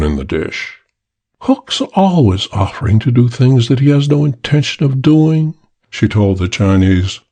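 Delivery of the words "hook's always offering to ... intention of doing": lightly higher woman's sneer; a hint of a scornful woman; mocking woman. The girl belittling Hook to the Chinese man, mild sneer.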